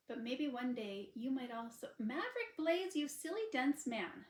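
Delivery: a sharp, fond, exasperated snap; snapped. Acted. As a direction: blurt it out before she can stop. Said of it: "she snapped".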